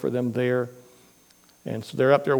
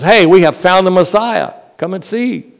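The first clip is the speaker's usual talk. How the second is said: excited; 5 semitones higher, 8 dB louder than usual. Acted. Andrew tells brother about Messiah.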